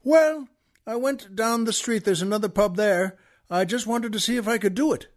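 sly Irishman. Retold or imitated. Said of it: "the Irishman says".

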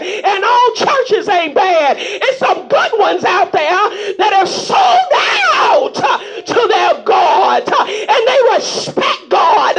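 shouting preacher, laughing through it; rally them, half laughing, half crying out; preaching with laughter. Real, not acted. Preacher to the church about good ministers, laughing and shouting.

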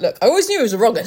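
fast offhand gossip; mock Beaver. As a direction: rattle it off smugly. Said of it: "Mister Beaver's gonna be like".

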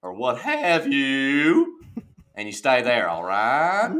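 low-effort Southern drawl with pauses; lazy country drawl. Shown as a demonstration. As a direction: coach in a relaxed country twang. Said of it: "take your effort of speaking, you lower it".

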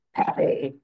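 lightly imitated scolding voice; mild scolding. Wife imitating her interrupted partner saying her name, mildly scolding. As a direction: call the name in mild mock reproof. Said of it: "that's that scolding voice".

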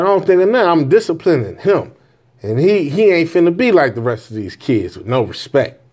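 an irritated dad defending how he disciplines his son; retold upset retort. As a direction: push back hard, getting heated. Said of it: "'Cause now I'm getting upset".

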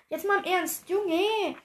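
deadpan "seriously, dude" punchline; mock serious. Running catchphrase punchline.

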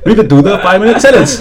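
quick, giddy announcement; happy excitement. Real, not acted. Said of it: "Why you happy?".

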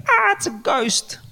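high, drawn-out mock scream; hammed-up cry of terror; mock fright. Disciples in the boat seeing a ghost, mock panic. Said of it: "Everybody's like".

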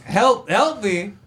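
high-pitched scornful disbelief; mock incredulity. Electrician retells scoffing at the shop guy's offer, high and incredulous.

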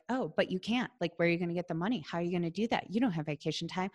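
quick, soft rattled-off objections; nagging brain voice. Retold or imitated. The doubting brain talking you out of it, quick and soft. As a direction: list the excuses fast, half under your breath. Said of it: "our brain takes over and is like".

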